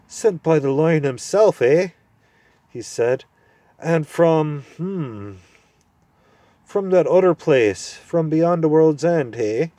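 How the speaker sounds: high, loud cranky dwarf; deaf old dwarf. Acted. Deaf dwarf mishearing the owl, loud and cranky. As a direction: mishear it and bark back.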